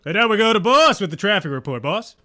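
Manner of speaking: radio host voice. Acted. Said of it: "like a radio, radio guy".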